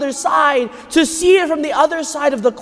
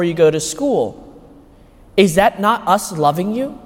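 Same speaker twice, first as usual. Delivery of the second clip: lightly voiced stern father. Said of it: "he looked at me kind of sternly".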